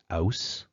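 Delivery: "aus", the H left silent; dropped H. Shown as a demonstration. Lecturer building a Cockney sentence block by block, dropped H. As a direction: say "aus" with no H at the front. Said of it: "here we're gonna look at Cockney".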